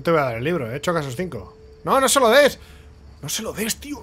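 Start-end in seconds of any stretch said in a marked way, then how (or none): 1.8-4.0 pleading shout. Real, not acted. Yelling at game character.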